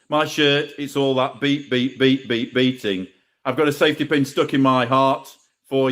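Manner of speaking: chanted, beat-driven spoken verse; rhythmic poem recital. Acted. Poet covering a punk artist's song for the crowd, chanting in rhythm. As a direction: pound out the refrain in rhythm.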